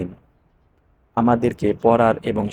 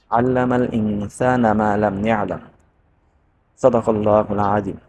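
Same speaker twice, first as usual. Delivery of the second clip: Quran recitation. Acted. Teacher opening class with Quran verses, measured recitation.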